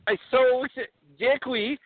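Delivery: put-on eager Borat, Kazakh accent. Borat asks the hosts about ladies, Kazakh accent. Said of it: "my name is, uh, Borat".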